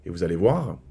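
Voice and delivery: a soft, low confiding aside to viewers; hushed aside. Real, not acted. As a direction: lean in and tell them the secret quietly. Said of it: "quiet confiding to camera". (confidence chuchotée aux abonnés)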